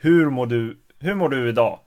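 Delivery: everyday Swedish in the speaker's own dialect. Shown as a demonstration. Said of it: "in my dialect".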